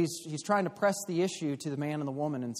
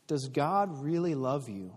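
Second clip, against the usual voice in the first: serpent whispering; slower than usual. Acted. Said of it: "the serpent whispered".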